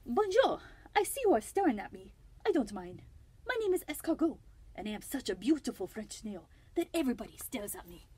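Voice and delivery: bad French accent, silly and showy; Escargot. French snail introducing himself to the listeners, very bad French accent. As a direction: play a vain snail with a hammed-up French accent. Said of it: "a very, very bad French accent".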